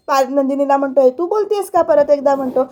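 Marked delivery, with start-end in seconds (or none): 1.0-1.8 higher, incredulous retold question; mock disbelief, asked again; surprised. Repeated shocked question. (अविश्वासाने पुन्हा विचारलेला प्रश्न)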